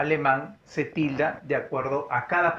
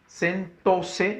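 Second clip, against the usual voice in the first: SENTÓSE split into sen-tó-se; sentóse spaced out by syllable; 3 semitones higher than usual. Shown as a demonstration. Teacher checking where the accent falls, syllable by syllable.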